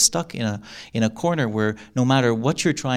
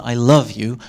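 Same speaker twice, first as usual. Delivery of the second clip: sincere. Shown as a demonstration. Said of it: "If you say to someone".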